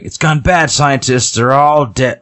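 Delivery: high-pitched mock battle report; acting out a soldier's alarm; retold alarm. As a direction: report disaster in a high, urgent voice.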